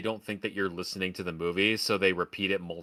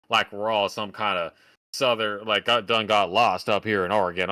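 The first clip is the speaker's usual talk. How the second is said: mock Southern drawl, lightly put on; 4 dB louder than usual. Oregonian mocking movie's take on locals, Southern drawl. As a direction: slip into a hint of Southern drawl. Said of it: "the Southern drawl comes back".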